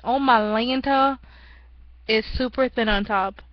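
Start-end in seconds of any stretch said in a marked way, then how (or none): 0.0-1.2 catchphrase. Shown as a demonstration. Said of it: "I'm gonna say again".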